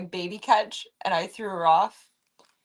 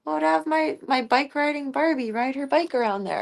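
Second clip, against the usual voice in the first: put-on higher, eager little-kid voice; a hint of a pleading child; childhood self; 6 semitones higher than usual. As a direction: play your younger self begging. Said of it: "I'd be like".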